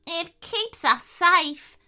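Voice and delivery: high, slow, nervous little animal. A narrator's reading. Nervous potoroo explaining the castle to Mia, nervous and high. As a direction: voice a timid potoroo, pitched high. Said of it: "said the nervous Potteroo".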